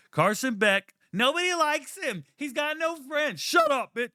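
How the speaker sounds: high mocking taunt, shouted at the end; mock trash talk. Taunting Carson Beck like a heckler, mock jeering. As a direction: jeer him like a heckler.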